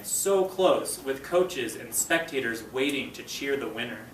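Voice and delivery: slow, expressive storybook narration; story read-aloud. A narrator's reading. Teacher reading the race scene to her students, expressive read-aloud. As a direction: read it to the class, building the race. Reads chapter aloud to class.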